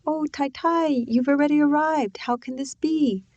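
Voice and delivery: high-pitched, scratchy cries of joy; excited young servant woman, scratchy and high. A narrator's reading. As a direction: greet her in a high, delighted squeal. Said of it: "She had a high, scratchy voice".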